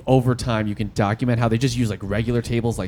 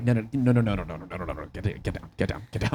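quiet pleading; 6 semitones lower, 8 dB quieter than usual. Retold or imitated. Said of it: "I'd be like".

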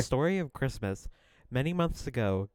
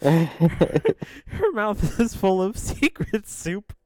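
slow, strange storyteller; 7 semitones higher, much slower than usual. Acted. Reading odd bot story aloud.

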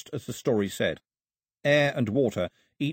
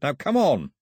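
urgent call; 4 semitones higher, 4 dB louder than usual. A narrator's reading. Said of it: "The on echoed up and down".

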